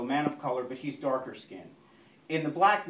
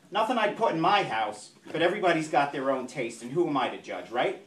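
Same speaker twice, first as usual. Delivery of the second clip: chatty nosy neighbor on the phone; 3 semitones higher, 3 dB louder than usual. Acted. Teresa judges the new neighbors' furniture by phone, nosy gossip voice. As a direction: confide your verdict down the phone line.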